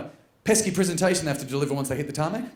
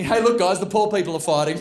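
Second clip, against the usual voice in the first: gloating call-out; 3 semitones higher, 5 dB louder than usual. Acted. Business passenger to cabin mates, gloating call-out. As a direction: crow it over the economy seats.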